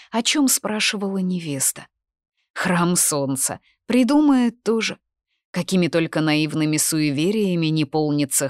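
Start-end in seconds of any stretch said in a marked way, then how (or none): 3.9-5.0 higher, louder burst of disbelief; dismissive scoff. A narrator's reading. Corvin thinking of his bride's superstitions, dismissive scoff. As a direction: scoff at a silly notion.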